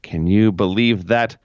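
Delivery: slow drawn-out mock disgust; imitating Stephanie. Quoting Stephanie about Trish, slow mock scorn. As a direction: stretch it out, scandalized. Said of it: "when Stephanie said about Trish".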